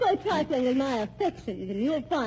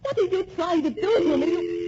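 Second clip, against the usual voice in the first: near tears; 4 semitones higher, 3 dB louder than usual. Acted. Wife distraught at husband's scheme.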